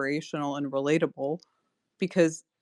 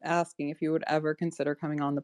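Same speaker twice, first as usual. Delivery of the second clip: talking tipsy. Real, not acted. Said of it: "I'm so drunk right now".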